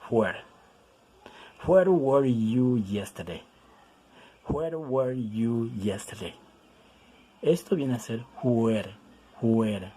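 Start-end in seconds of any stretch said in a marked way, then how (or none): 0.1-0.4 "Where." said slowly with a clear w sound; careful pronunciation. Shown as a demonstration. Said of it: "lo vamos a pronunciar where". 1.7-3.4 slow, clear "Where were you yesterday?"; slow model reading. Shown as a demonstration. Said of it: "lo vamos a pronunciar where". 4.5-6.3 slow model reading. Shown as a demonstration. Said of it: "lo vamos a pronunciar where".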